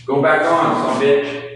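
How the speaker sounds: high-pitched cussing at the light; mock scolding. Real, not acted. Cursing at the light again.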